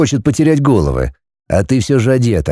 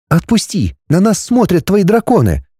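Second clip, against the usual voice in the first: put-on high, indignant young woman; girl's voice; 8 semitones higher than usual. A narrator's reading. Heroine questioning the dragon, high and puzzled.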